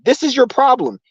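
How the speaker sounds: high-pitched mock doctor pronouncement; imitated doctor. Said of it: "when a doctor says".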